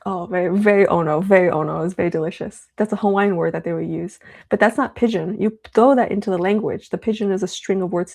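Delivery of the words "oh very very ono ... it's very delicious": louder punchy 'very ono' praise; playful delight in the taste; mock foodie rave. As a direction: hype up the food like it's amazing. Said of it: "That's, that's like".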